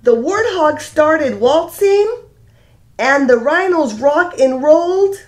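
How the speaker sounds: gentle sing-song storybook reading; lilting read-aloud for a class; reading to children. A narrator's reading. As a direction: read it like storytime for little kids. Reads picture book aloud.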